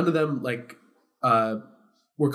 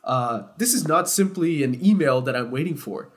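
mock passive-aggressive; 2 semitones higher than usual. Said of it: "he was getting passive-aggressive with me too".

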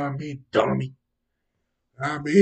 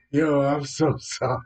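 breaking into laughter, a bit louder; laughing apology; 5 dB louder than usual. Real, not acted. Host apologising for mocking the royals, laughing.

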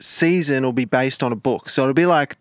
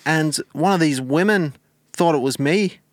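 measured put-on regional accent; Gary, deadpan storyteller; 4 semitones higher than usual. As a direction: recount it as an accented lad on the phone. Plays Gary in mock phone interview.

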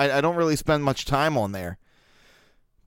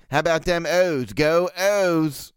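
lightly exaggerated Baltimore O's; Baltimore accent; 3 semitones higher, slower than usual. Shown as a demonstration. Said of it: "try to not have them, uh, the O's".

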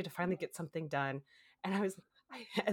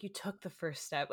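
quieter, tender encouragement; softer reassurance; 6 dB quieter than usual. Retold or imitated. Receptionist soothing crying patient, softer and tender. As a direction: say it softly, comforting. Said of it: "couldn't have been sweeter with me".

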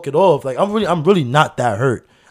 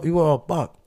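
put-on Aziatisch accent; 5 semitones higher than usual. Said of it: "trying to say black".

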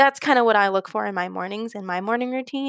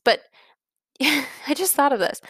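laughing; 5 semitones higher than usual. Real, not acted. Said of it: "Sorry about my A D H D problems".

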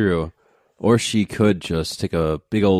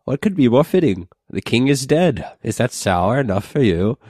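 put-on old crone voice; 5 semitones higher, 4 dB louder than usual. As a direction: croak it like a wine-soaked crone. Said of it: "kind olden lady".

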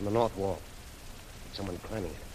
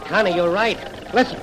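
excited; 8 semitones higher, 10 dB louder than usual. Acted. Bob hears the tanks.

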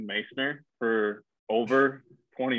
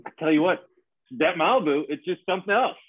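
middle-aged dad voice; 3 semitones higher than usual. Retold or imitated. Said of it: "fifty-six-year-old dad".

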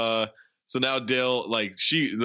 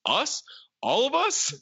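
mock surprise; 11 semitones higher, slower than usual. Retold startled reply to a proposition.

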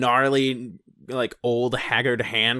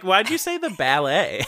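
mock surprised question; 6 semitones higher than usual. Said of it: "I was like".

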